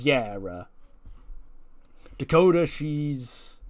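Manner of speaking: slow, stalling retold reply; awkward hedging. Adam explains to Ren about Dakota, awkward hedging. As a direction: drag it out, reluctant to explain. Boss awkwardly breaks the news.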